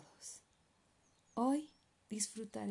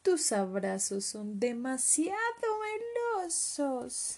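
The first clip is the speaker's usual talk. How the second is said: little leopard; 6 semitones higher, slower than usual. Acted. Cub complains of hug.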